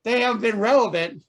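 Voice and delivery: fiery TV preacher sermon. Acted. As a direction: preach to the congregation, building up. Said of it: "we have the Reverend Moses".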